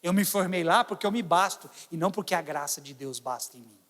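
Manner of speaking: ordinary delivery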